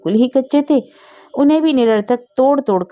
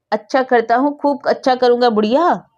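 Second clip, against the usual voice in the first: put-on a boy's defiant shout, pitched higher; shouting from a tree; 5 semitones higher than usual. Boy shouts down from the tree at the old woman, defiant. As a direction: yell down at her from the branches. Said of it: "पेड़ से ही चिल्लाकर बोला".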